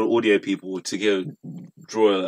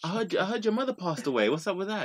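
pushy reporter; 10 semitones higher, 5 dB quieter than usual. Retold or imitated. Camera crew asking rude questions.

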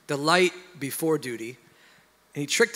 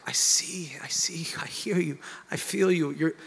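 higher, breaking into whisper, lightly acted crying; tearful prayer; 3 semitones higher than usual. Dad crying before his children to God, mock tearful plea. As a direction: plead upward as if moved to tears. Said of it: "now he's crying".

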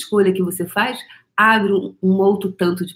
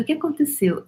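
gentle question; 9 semitones higher than usual. Retold or imitated. To the girl's father, a higher gentle question. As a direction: ask it kindly. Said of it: "E aí eu falei".

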